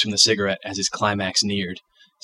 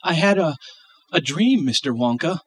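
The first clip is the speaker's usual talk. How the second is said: put-on child voice; 7 semitones higher than usual. Voicing the child Charlie.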